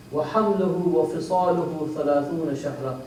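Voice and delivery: recited Quran verse; Quran recitation. Acted. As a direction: recite the verse in a rolling chant.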